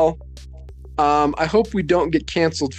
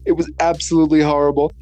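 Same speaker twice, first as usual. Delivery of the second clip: Trump impression. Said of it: "I can't do an impression".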